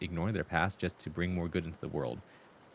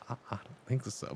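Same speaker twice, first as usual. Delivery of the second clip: quiet doubt; 3 semitones higher, 8 dB quieter than usual. Retold or imitated. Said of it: "I didn't say that out loud".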